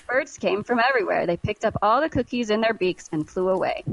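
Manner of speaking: lively, measured storybook reading; expressive story narration with lightly acted dialogue; story read-aloud. A narrator's reading. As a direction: read it like a picture book for kids. Reads children's story aloud.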